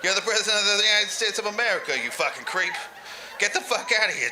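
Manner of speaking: indignant acted shouting, held back; retold yell. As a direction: tell him off in a half-yell. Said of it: "I yell".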